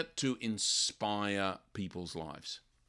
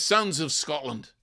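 rallying Wallace; 4 semitones higher, 5 dB louder than usual. Retold or imitated. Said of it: "But he says".

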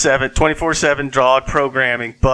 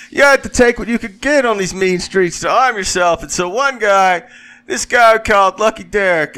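put-on old man storyteller voice; 6 semitones higher, 5 dB louder than usual. Joe Biden persona storytelling.

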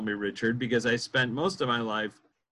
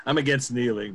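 amused. Real, not acted. Host jokes about objecting to kneeling.

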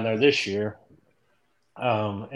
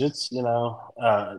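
usual speaking voice

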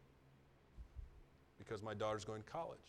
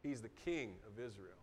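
low, soft declaration of truth; the preacher affirming the same words as true; sincere; 3 semitones lower, 6 dB quieter than usual. Shown as a demonstration. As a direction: state it quietly as fact. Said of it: "That statement's true".

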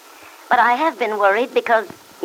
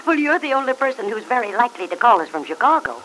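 friendly, higher-pitched phone chat; warm, friendly; 5 semitones higher than usual. Acted. Aunt chatting with Del on a long-distance call, warm and friendly. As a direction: greet an old friend warmly, pitch lifted. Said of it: "she hears Aunt Mary's warm, friendly voice".

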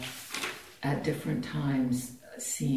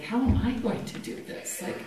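high, incredulous inner voice; mock bewildered; 8 semitones higher than usual. She voices her doubting self answering the inner voice, pitched high and bewildered. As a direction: squeak out the disbelief. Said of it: "It's like".

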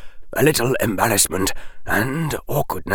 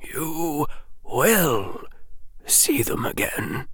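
stiffly; 6 semitones higher, 6 dB quieter, slower than usual. A narrator's reading. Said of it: "the old wizard said stiffly".

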